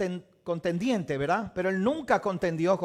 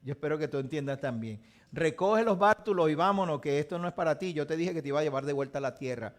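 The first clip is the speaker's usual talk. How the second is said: calm fatherly God; 3 semitones lower than usual. Retold or imitated. God answering Jacob.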